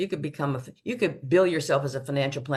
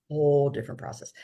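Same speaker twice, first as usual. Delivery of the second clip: fast, softer repeat of "Whole different process"; quick quiet echo; faster than usual. Shown as a demonstration.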